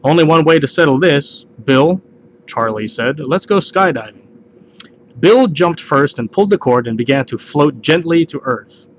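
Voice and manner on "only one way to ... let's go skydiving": ordinary talk, nothing marked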